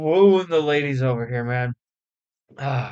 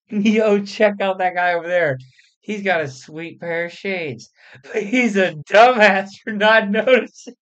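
rowdy stoner shout; 4 semitones higher, 4 dB louder than usual. Acted. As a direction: call out the window like a rowdy stoner. A rapper voiced leaning out window.

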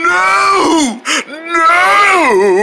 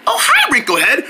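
cartoon mom. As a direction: greet sweetly as a put-on mom. Mom greeting her son.

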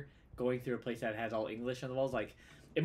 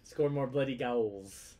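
half-hearted, slow hooligan chant; football hooligan; much slower than usual. Acted. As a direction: attempt a British football fan, drawn out. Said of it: "you do the football hooligan".

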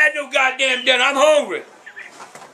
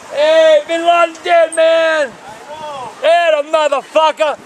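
louder, whooping celebration; jubilant yell; 3 semitones higher, 4 dB louder, slower than usual. Real, not acted. Old man celebrating the news, jubilant shouting. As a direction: cheer it out loud. Celebrating Bin Laden's death.

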